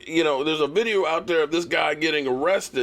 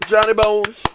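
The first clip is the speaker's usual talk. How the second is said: shout; 4 semitones higher, 5 dB louder than usual. Real, not acted. Shout-out to a viewer.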